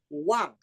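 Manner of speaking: Wang falling sharply; fourth tone Wang. Shown as a demonstration. Teacher drilling falling fourth tone. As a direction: drop Wang hard, like anger. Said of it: "Fourth tone".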